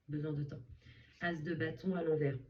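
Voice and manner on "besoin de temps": soft echo. Shown as a demonstration. A reader softly repeating her advice to the listener. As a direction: repeat it softly, letting it sink in. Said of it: "il y a besoin de temps".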